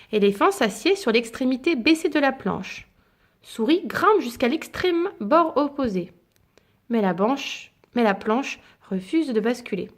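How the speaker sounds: gentle bedtime storybook reading; story narration. A narrator's reading. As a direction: read it like a picture book to a child. Reads picture book aloud.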